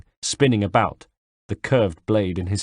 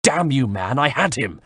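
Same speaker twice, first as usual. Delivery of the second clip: shouted; 4 semitones higher than usual. Acted. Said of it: "he shouted".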